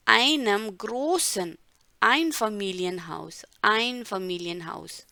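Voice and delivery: Einfamilienhaus drawn out syllable by syllable; slow model words. Shown as a demonstration. Teacher breaking down Einfamilienhaus slowly for students. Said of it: "word-by-word breakdown".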